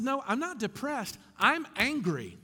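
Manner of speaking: emphatic retort, mildly heated; firm angry correction. Retold or imitated. Patient correcting the therapist's diagnosis, mildly angry retelling. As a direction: correct him firmly, punching the last words. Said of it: "And I corrected him".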